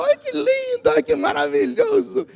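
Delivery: hammed-up high coo, near a whimper; mock cooing. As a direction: gush over the child in mock delight. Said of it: "a gente fala". (imitando quem baba pelo bebê, voz bem aguda)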